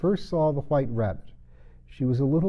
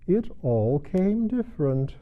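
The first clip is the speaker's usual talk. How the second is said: thoughtful; 7 semitones higher, slower than usual. A narrator's reading. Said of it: "repeated thoughtfully".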